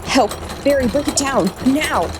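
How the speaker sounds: shaking, high desperate yell; high frightened shout. Acted. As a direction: scream for help, voice shaking. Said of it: "Jill shouted, her voice high and shaking".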